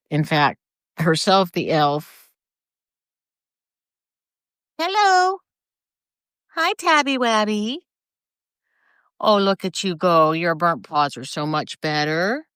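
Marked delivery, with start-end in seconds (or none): 4.8-7.8 very high, sing-song pet voice. Real, not acted. Baby-talking to her cat.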